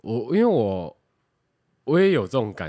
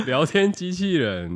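laughing; 9 semitones higher than usual. Real, not acted. Laughing after robot joke.

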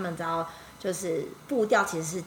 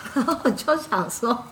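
laughing indignation; 6 semitones higher, 5 dB louder than usual. Real, not acted. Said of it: "这真的蛮侮辱的".

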